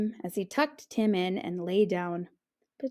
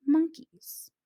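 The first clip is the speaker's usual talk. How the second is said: whispered; 7 semitones higher than usual. A narrator's reading. Mom's closing word.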